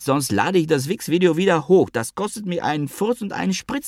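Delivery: high, whining plea of a wronged friend; whiny Avi. Acted. Avi whines at the ghostwriter about their deal, high and tearful. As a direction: wheedle and whine, voice pitched high. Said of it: "rief weinerlich".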